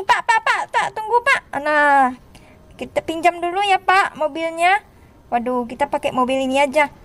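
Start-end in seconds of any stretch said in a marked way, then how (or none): 0.0-1.4 high-pitched urgent hail; play-acted hurried plea; calling out. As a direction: call after a man to wait. Hailing a driver.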